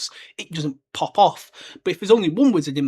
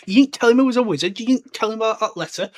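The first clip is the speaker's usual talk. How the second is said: Hagrid's mock fury, loud on the first line; half-hearted angry yell at the Dursleys; 6 semitones higher, 6 dB louder than usual. Hagrid yelling at the Dursleys in mock anger. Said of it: "He got so angry".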